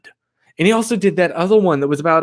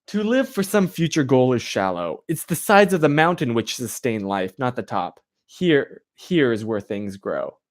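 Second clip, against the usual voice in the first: reading a quote; 4 semitones lower than usual. Real, not acted. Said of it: "the quote right here".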